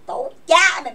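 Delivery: loud cursing outburst; angry curse. Real, not acted. Cursing her ex who cost her everything, loud angry outburst. Angry rant at former partner.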